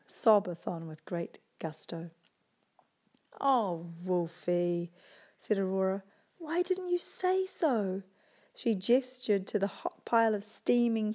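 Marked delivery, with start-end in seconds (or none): 3.4-4.9 tender. Acted. Aurora comforting. 6.4-8.0 tender, slow. Acted. Aurora comforting.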